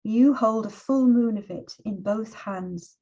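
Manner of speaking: measured, unhurried poetry reading with long pauses; poem reading. Acted. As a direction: let each image land, read it gently. Reads poem for her son.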